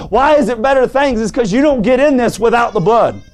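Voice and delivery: driving, exultant pulpit delivery; full-force preaching. Real, not acted. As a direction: proclaim it fervently to the church.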